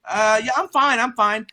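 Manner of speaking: high-pitched imitation of a bumped stranger; bumped bum's voice. Bum bumped by the car, high-voiced reassurance. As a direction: put on a high voice, brushing it off. Bumped man answers, retold.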